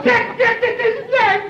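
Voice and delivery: laugh-crying. Acted. Dubois mourns, laughing-crying.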